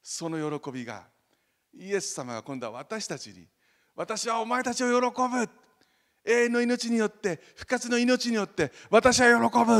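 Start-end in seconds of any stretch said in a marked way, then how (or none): 3.9-9.8 much higher and louder proclamation; Jesus proclaiming. Retold or imitated. Jesus declaring joy over his people, ringing proclamation. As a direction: proclaim it like a divine promise. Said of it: "って言ったんです".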